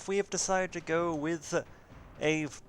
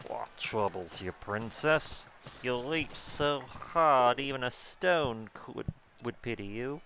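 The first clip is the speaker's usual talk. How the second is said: croaky frog voice; slower than usual. Acted. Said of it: "that wasn't croaky enough".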